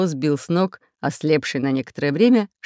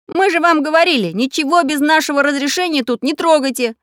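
much higher, louder telling-off; stern scolding; 11 semitones higher, 5 dB louder than usual. Acted. Mechanic scolds pirates for touching, stern. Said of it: "строго повторил Самоделкин".

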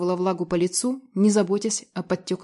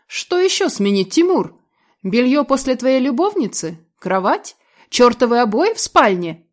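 louder and higher, furious tirade; angry outburst; 4 semitones higher, 6 dB louder than usual. A narrator's reading. Betrayed wife shouting at cheating husband, furious. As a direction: hurl each item at him.

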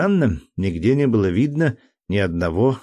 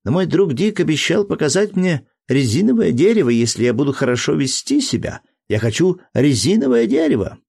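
put-on high, whiny child asking; a small boy pleading for a promise; little boy voice; 6 semitones higher than usual. A narrator's reading.

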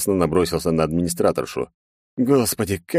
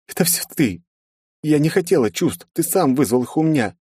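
put-on higher girlish voice, hurt and accusing; upset young princess; 10 semitones higher than usual. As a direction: blame him like a jealous girl.

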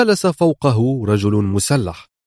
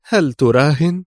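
sharp, higher-pitched question; lightly acted sharpness, raised pitch; sharp challenge; 4 semitones higher than usual. A narrator's reading. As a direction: throw it out as a pointed dare. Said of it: "وهي تقول في حدة".

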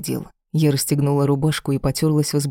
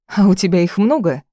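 sneering, louder jab; mocking; 4 semitones higher, 5 dB louder than usual. A narrator's reading. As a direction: taunt him with the question. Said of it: "с издёвкой поинтересовалась". (громкая издевательская насмешка)

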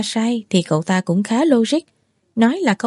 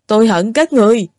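louder, hateful declaration; full of loathing; 5 dB louder than usual. A narrator's reading. Drunk boy telling everyone he hates them, loud loathing. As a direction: spit it out with loathing. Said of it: "Cậu chán ghét nói".

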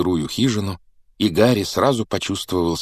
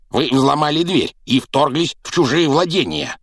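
indignant shrill uncle; 8 semitones higher, 3 dB louder than usual. Acted. Uncle protests to intruder.

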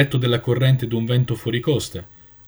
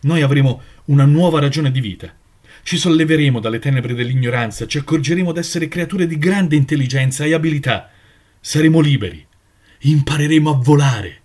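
eager hope; 2 semitones higher, 4 dB louder than usual. Acted. Jonathan dreams aloud of flight.

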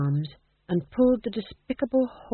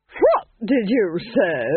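flustered bumbling goofy; 2 semitones higher, 5 dB louder, much slower than usual. Acted. Duke taken aback.

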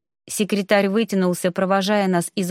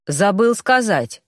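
officer voice; slower than usual. A narrator's reading. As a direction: drop it in like an awkward officer.

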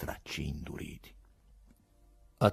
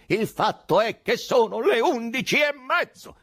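high, loud outburst; raised, booming protest; Ababkov, thundering; 6 dB louder than usual. A narrator's reading. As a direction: thunder the complaint at full pitch. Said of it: "tonò Ababkov".

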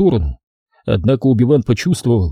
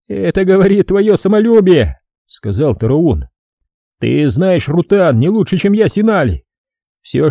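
mild reproach, a touch higher; lightly voiced reproachful brother; 7 semitones higher than usual. Brother reproaching the prince, mildly angry. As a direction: demand he explain himself. Heated argument.

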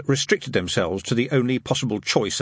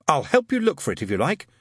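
gallant; 5 semitones higher than usual. Acted. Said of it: "said Adam gallantly".

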